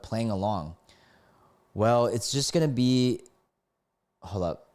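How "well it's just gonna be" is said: lightly put-on country accent; a hint of country twang. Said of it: "let me do this with a country accent".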